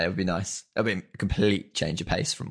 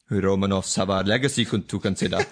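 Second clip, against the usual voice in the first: put-on Russian accent; 3 dB louder than usual. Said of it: "if I can do a Russian accent".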